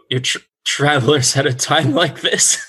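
laughing the words out, breaking into a high giggle; nervous laugh. Acted. Innkeeper marvels at travelers arriving, laughing nervously. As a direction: giggle through it in disbelief.

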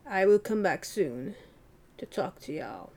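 awkward, weird British lady; lightly raspy British character voice; raspy British accent. Acted. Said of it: "It's a raspy British accent".

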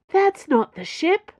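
high, loud, drawn-out glee; gleeful, teasing reveal. A narrator's reading. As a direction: relish it with delight. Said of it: "sounding gleeful".

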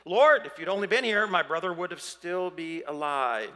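loud frustrated plea, easing off. Acted. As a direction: cry out in mild reproach, then ease down. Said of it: "Do you hear the frustration in that?".

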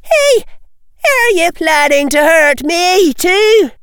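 high, loud, near tears; scared cry. Acted. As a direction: plead in panic. Threatened girl crying out.

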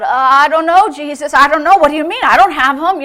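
flustered, imitated panicky protest; nervous. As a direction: stammer out excuses nervously. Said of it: "he got nervous".

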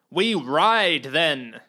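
rally and charge off; eager call to ride; shouted. Acted.

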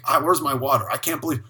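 mock tantrum building to a high, loud demand; spoiled complaining. Spoiled diner fuming over water and dressing, mock outrage.

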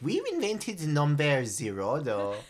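light Iranian accent, parent impression; imitating Iranian parents, Iranian accent. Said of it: "I do a great Iranian accent".

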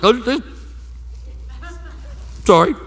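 flustered self-collecting. Retold or imitated. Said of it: "I always collect myself. I'm like".

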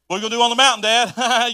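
put-on the kid keeps pushing; mildly whiny child asking; curious child. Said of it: "Imagine being Isaac".

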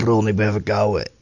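talking with a real head cold; stuffy nose. Real, not acted. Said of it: "Ik merk het aan je stem".

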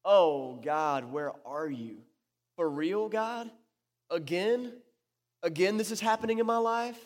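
drawn-out, exasperated plea to God; weary, questioning disbelief; forsaken lament. Acted. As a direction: cry of someone feeling let down by God. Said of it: "prayer of the forsaken".

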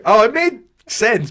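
no belief. Shown as a demonstration. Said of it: "said with no belief".

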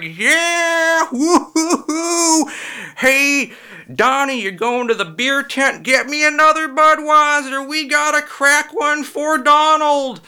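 very high, loud hollering hick; whooping redneck fan. Retold or imitated. Crowd cheering Trump at NASCAR, loud high redneck whoops. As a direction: holler like a drunk race fan. Crowd going nuts at race.

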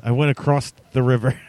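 "across" said as acrosst, T on the end; South Jersey "across". Shown as a demonstration. Giving an example of South Jersey talk, "across" with a final T. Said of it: "Always with a T on the end".

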